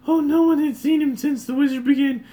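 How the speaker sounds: squeaky high village woman; loud high-pitched old lady character; high NPC lady voice. Acted. Voicing village woman NPC dialogue.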